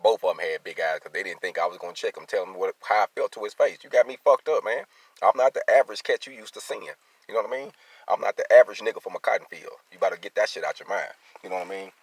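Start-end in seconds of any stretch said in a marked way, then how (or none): 2.3-11.1 loud, heated and much higher, raising his voice; angry rant. Real, not acted. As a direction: let the anger boil over, shouting at someone who isn't there. Venting about a rude coworker.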